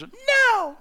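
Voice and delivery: mock toddler outburst; toddler's no. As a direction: squeal it like a defiant two-year-old. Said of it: "you think about that for two years".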